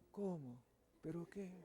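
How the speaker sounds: tiny, almost inaudible reply; very quietly. Shown as a demonstration. Meek answer to someone who is yelling, barely audible. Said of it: "tú háblale quedito".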